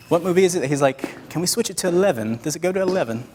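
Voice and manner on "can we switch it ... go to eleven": higher-pitched mock British accent; bad British accent. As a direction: put on a bad British accent for a film quote. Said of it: "Felix is gonna hate me for making that accent".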